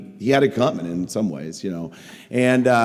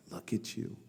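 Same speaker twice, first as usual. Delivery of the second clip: soft, slow retelling of a tearful plea; hushed and halting, imitating someone upset; understated imitation of crying disappointment; 5 dB quieter, slower than usual. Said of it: "She started crying".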